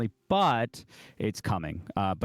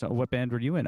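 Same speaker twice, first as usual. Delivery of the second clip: higher-pitched imitation of British small talk; British accent; 6 semitones higher than usual. Queen asking the next guitarist, in imitated British accent. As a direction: lightly mimic a British lady, pitched up. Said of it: "in her little British accent".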